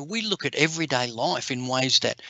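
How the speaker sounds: ordinary delivery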